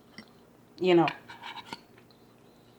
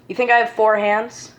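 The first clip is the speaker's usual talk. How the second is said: louder and higher, fed-up disbelief; exasperated shout; 5 semitones higher, 7 dB louder than usual. Real, not acted. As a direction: throw the question back at them, incredulous. Repeats question, exasperated.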